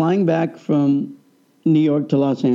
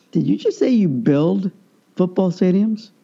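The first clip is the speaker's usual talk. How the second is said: higher, wide-eyed disbelieving question; amazed disbelief; 3 semitones higher than usual. Retold or imitated. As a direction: ask like you can't believe your ears. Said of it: "my eyes get really wide".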